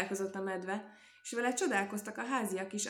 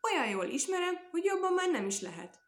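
gleeful laughing boast; 10 semitones higher, 5 dB louder than usual. A narrator's reading. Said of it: "kacagott a teknős".

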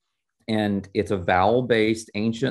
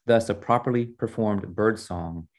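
animated read-aloud of dialogue; expressive storyteller delivery; story reading. A narrator's reading. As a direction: read a novel scene aloud, lifting the quotes. Reads novel scene aloud.

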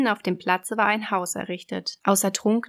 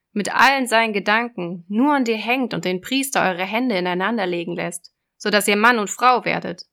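loud, raised sea witch; 5 dB louder than usual. Acted. Witch voice in fairy tale.

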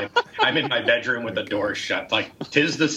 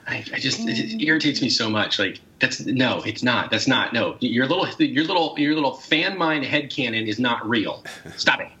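irritated snapping. Real, not acted. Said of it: "I sound a little irritated".

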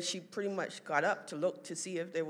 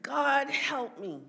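high, loud, slow cry to heaven; imitated plea; 8 semitones higher, 9 dB louder, much slower than usual. Mom calling on God from hospital bed, imitated wail. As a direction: act out calling on God, drawn out.

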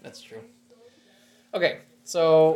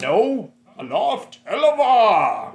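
spell incantation; 8 semitones higher, 8 dB louder, much slower than usual. Retold or imitated. Quoting the movie's spell.

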